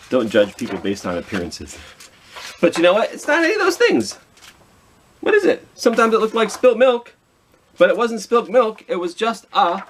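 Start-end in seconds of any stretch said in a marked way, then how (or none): 2.6-9.8 playful high storytelling. Acted.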